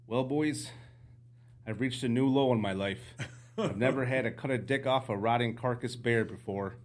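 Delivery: imitated Canadian guide; lightly voiced Canadian guide owning up; Canadian accent. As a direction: put on a mild Canadian accent. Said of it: "gonna try my Canadian accent again".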